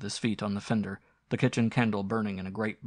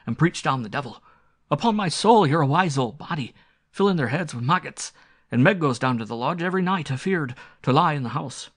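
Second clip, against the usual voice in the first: higher, louder, scolding rustic squire; blustering country squire; 5 semitones higher, 6 dB louder than usual. Acted. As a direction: berate an old servant in a hearty dialect voice.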